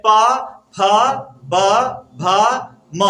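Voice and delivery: प, फ, ब, भ, म each said alone with pauses; sounding out letters. Shown as a demonstration. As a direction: pop out प फ ब भ म one by one. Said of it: "जैसे बोलेंगे".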